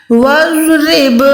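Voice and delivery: وَاضْرِبْ with a heavy ض and a thin ر; وَاضْرِبْ drawn out, heavy dhad, thin ra. Shown as a demonstration. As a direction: say وَاضْرِبْ slowly, ض thick, ر light. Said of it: "زود موٹا، را باریک".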